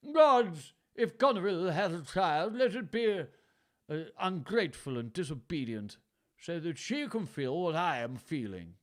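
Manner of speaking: high loud curse to the gods; hammed-up old king's cry; cried out. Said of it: "he cried".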